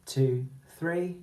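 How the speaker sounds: slow counted one, two, three. Shown as a demonstration. Teacher cueing the class, slow counting. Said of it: "word is one".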